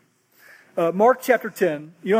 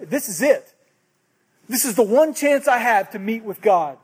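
desperate resolve; 3 semitones higher, 4 dB louder than usual. Acted. Voicing a desperate believer.

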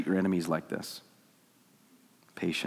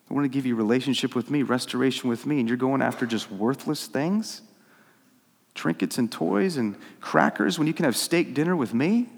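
mildly incredulous, rising into questions; incredulous pleading; 3 semitones higher than usual. Acted. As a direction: plead in disbelief at being passed over. Acts God pleading, incredulous at rebels.

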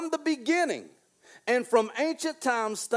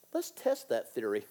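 low, softer, menacing; ominous God; 11 semitones lower, 8 dB quieter than usual. Pretend. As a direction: warn it quietly from above. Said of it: "God ... to say".

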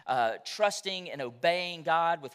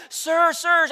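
higher mock pity, lightly voiced; mock concern, higher and louder; pitying lady voice; 10 semitones higher, 10 dB louder than usual. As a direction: imitate a lady talking to an old man. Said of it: "you could hear it in her voice".

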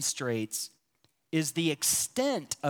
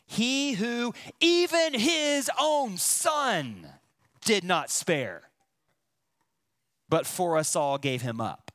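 EVEN and HIS OWN SON stressed, slow; literal word order. Shown as a demonstration. Preacher reading the verse in Greek word order, slow and weighted. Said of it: "here's literally how Paul writes verse thirty-two".

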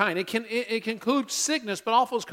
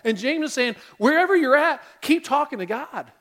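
building rhythmic list; 3 dB louder than usual. Real, not acted. Preacher showing life's ups and downs, building emphatic list. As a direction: swing back and forth, climbing to an emphatic peak.

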